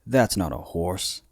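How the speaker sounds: slow, drawn-out Australian accent try; attempted Australian accent. Shown as a demonstration. Hosts joking about a famous movie line, in a failed Australian accent. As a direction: reach for an Australian twang, slowly. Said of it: "I'm trying to do it in an Australian accent".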